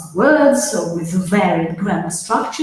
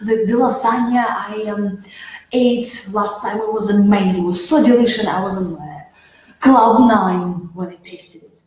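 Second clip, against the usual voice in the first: enthusiastic, meaning it. Shown as a demonstration. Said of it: "kind of mean it".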